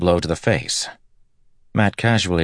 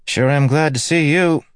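hero voice; 12 semitones higher, 6 dB louder than usual. Acted. Matt greets the rescued man.

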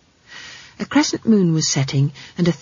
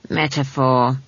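measured, unruffled correction; calm; 3 semitones lower, slower than usual. Acted. Granny corrects the girl's word, calmly. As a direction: correct it evenly, unhurried. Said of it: "said Granny calmly".

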